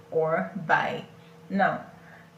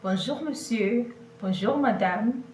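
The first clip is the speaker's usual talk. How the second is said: polite greeting; 4 semitones higher than usual. Shown as a demonstration. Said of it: "you can say bonjour to your boss".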